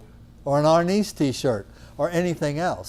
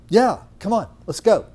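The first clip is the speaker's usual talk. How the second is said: eager yes; 7 semitones higher, 7 dB louder than usual. Retold or imitated. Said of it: "they were like".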